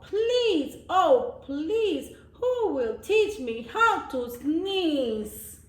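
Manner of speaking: high, begging please; pleading goat. Acted. Goat leader begs friends, high pleading voice. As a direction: beg sweetly like a little goat.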